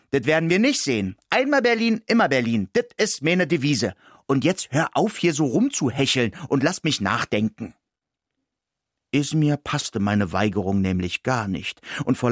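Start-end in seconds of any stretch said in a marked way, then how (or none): 0.1-7.7 higher, fast stubborn retort; defiant. Acted. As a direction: brush off the dog with cheeky pride. Mouse defiantly refuses dog.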